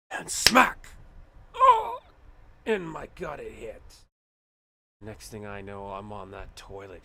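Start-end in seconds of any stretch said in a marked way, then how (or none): 0.1-2.0 sudden shouted impact and a squealed oh; mock impact shout and yelp; loud smack. Cheese hits the gut. 2.6-3.8 louder, higher dramatic telling. Pretend. Cheese story climax.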